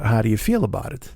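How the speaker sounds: lightly put-on French accent; a hint of mock French accent; tortured French accent. French passenger asking driver's opinion, tortured French accent. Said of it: "stop the tortured French accent now".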